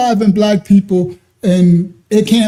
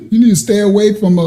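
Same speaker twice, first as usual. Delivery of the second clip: laughing; faster than usual. Real, not acted. Laughing warning to troll.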